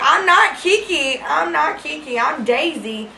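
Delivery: loud, slow, high protest that fades off; loud, slow denial to angry callers, fading at the end; insistent denial. Retold or imitated. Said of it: "I'm like".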